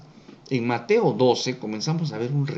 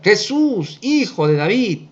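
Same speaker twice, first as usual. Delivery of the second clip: restrained imitation of a blind man's shout; mildly raised, pleading call; crying out; 6 semitones higher, slower than usual. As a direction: call out for help, not at full volume. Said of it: "él comienza a gritar".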